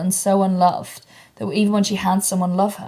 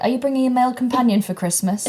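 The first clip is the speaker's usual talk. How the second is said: mimicking mum; 5 semitones higher than usual. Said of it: "the kind of thing that my mum would say".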